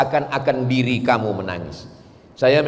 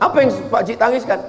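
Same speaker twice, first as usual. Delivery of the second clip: gently puzzled ustaz; 8 semitones higher, faster than usual. Retold or imitated. Ustaz asking the old man.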